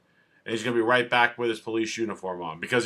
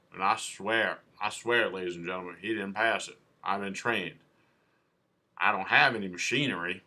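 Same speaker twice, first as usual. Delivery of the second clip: put-on Southern accent; 3 semitones lower than usual. Officer testifying to the jury, in a put-on Southern accent. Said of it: "I shouldn't do that in a Southern accent".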